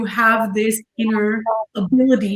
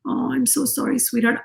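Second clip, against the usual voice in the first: tender soothing; 3 semitones higher, 5 dB quieter than usual. Shown as a demonstration. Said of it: "soothing yourself and saying".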